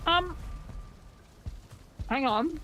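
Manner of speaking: talking through a mouthful; words round a bite of food; mouth full. Real, not acted. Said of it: "I just have my mouth full".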